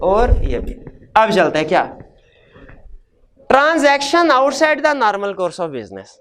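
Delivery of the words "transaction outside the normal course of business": slow dictation. Shown as a demonstration. Teacher dictating key term.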